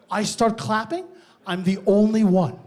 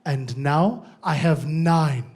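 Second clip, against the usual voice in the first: mom's slow deadpan; 5 semitones lower, slower than usual. Retold or imitated. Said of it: "leans into the mic and goes".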